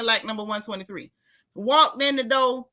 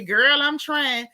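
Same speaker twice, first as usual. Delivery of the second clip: put-on valley girl; 4 semitones higher, much slower than usual. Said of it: "when they were talking about".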